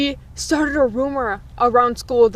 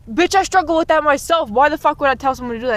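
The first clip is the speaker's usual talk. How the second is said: higher-pitched, quickening retort; indignant comeback; 5 semitones higher, 3 dB louder, faster than usual. Retold or imitated. Student answering an accuser in gym, indignant. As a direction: fire back, offended and incredulous. Recounts snapping back at accuser.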